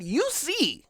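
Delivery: high and loud insistent appeal; urgent loud plea; pleading complaint to God. Retold or imitated. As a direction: press God to admit it. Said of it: "I would tell God".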